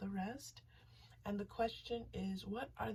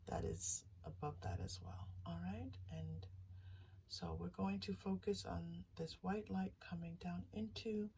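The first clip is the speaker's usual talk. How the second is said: whispered meditation. Acted. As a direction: breathe the words like a meditation guide.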